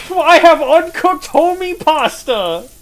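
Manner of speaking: goofy voice. Pretend. Goofy announcement, slow odd voice.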